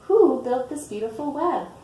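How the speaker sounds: high, loud owl question; owl character. A narrator's reading. Owl asks who built the web, hooting voice. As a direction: stretch the who like a hoot. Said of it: "asked the owl".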